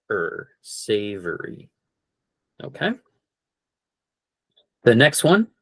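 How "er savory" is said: savory with the middle said as er, not or; savory as say-ver-ee with er; er sound in savory. Shown as a demonstration. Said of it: "The O R is more like an E R".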